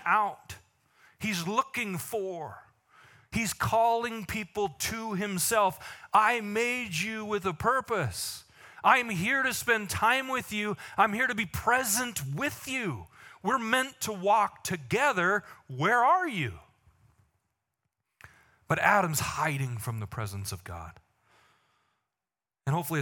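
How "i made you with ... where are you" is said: tender plea. Acted. Pastor voices God's tender plea.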